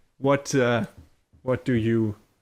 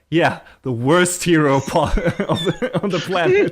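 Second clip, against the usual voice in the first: laughing jab; 3 dB louder than usual. Retold or imitated. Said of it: "she says".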